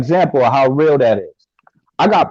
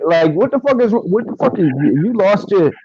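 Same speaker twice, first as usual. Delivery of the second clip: higher-pitched, retold outrage; indignant challenge; 6 semitones higher than usual. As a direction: confront them in disbelief, stumbling over restarts. Acting out challenge to scornful cop.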